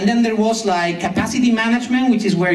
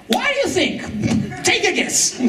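sarcastic; 9 semitones higher than usual. Retold or imitated. Mocking answer to the product owner.

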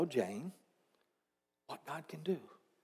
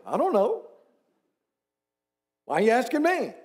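higher, mock-puzzled I don't know; imitating Gator; 5 semitones higher than usual. Pastor imitating Gator brushing off questions, higher and puzzled. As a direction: shrug it off as Gator would. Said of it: "he'll say".

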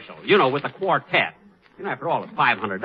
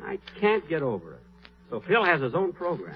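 muttered brooding; 2 semitones higher, 6 dB quieter than usual. Acted. Brooding over Phil's news.

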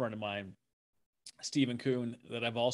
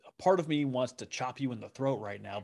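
mock threat; 3 dB louder than usual. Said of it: "like, it's".

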